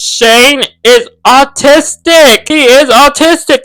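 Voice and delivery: excited reveal. Real, not acted. Revealing big news.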